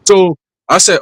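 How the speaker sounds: usual speaking voice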